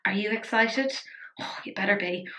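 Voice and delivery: soft unvoiced whisper. Real, not acted. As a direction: whisper it conspiratorially. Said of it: "I'm excited".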